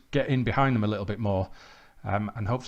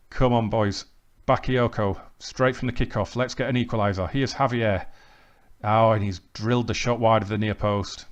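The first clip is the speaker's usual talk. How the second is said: lively match commentary, rising with each chance; live play-by-play; 3 dB louder than usual. Real, not acted. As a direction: call the action as it happens. Commentates his own match highlights.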